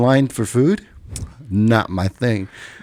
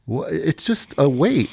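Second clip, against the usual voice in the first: imitating wife's bafflement; 5 semitones higher than usual. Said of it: "she's like".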